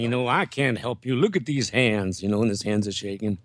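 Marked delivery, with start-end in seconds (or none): 0.3-2.2 put-on Dean Martin drunk. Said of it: "Dean had the whole thing".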